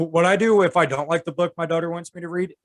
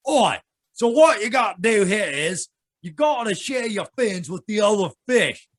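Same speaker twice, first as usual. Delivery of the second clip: gruff octopus voice; 4 semitones higher than usual. Acted. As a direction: boom out the octopus like a rough sailor. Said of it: "before I picked the voice".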